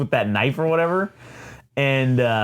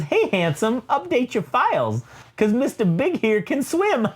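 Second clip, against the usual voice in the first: higher, slow, teasing and laughing; hammed-up femme fatale taunt, higher and slower with a laugh; taunting Typhoid Mary; 9 semitones higher than usual. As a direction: purr a mocking taunt at the hero.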